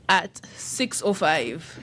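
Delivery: drawn out slowly, each word weighed; slow deliberate. Acted. Promoting the dinner to listeners, slow and deliberate. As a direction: spell out the odd time slowly for comic effect. Joking exact food start time.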